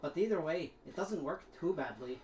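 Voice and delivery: Scottish brogue influenced by Mimir; attempted Scottish accent. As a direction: chat along in a put-on Scottish accent. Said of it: "too much influenced by Mimir".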